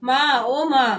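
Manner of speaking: a mock moan calling out for mother; loud moaning. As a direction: stretch out माँ, ओ माँ as a hammed-up groan. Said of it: "Mohan जोर से कराह कर".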